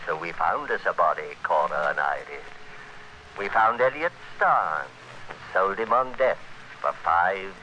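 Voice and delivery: measured first-person noir narration; hard-boiled radio narrator looking back; story narration. A narrator's reading. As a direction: tell it to the listener like a confession.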